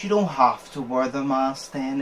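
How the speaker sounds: slow imitated mock agreement; sarcastic. Shop guy to maskless customer, slowly sarcastic. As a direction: draw it out with pointed sarcasm. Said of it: "in that exact, like, tone".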